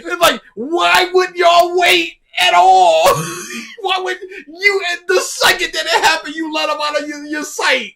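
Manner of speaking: can barely get it out for laughing; laughing disbelief. Real, not acted. Reacting to the dumb plot, laughing hard in high disbelief.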